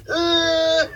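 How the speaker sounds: mock Lucille Ball cry. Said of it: "doing that cry".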